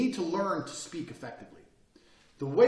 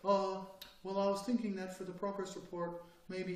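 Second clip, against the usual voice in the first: mock meek employee; 3 semitones higher, 6 dB quieter than usual. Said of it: "just wanna sit in their little chair".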